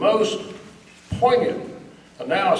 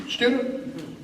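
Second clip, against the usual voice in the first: sarcastic whisper; 6 semitones higher, 6 dB quieter than usual. Acted. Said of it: "sarcastic aside about grammar school".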